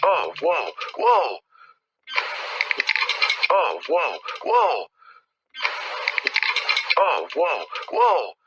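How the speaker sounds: sharp startled gasp of surprise; startled whoa. Real, not acted. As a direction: jump at a sudden sound. Fence rattles repeatedly.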